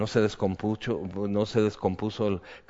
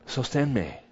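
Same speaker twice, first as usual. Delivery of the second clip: pleading prayer. Retold or imitated. Preacher retelling his prayer under trial, earnest plea. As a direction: beg God to hold you up. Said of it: "y digo".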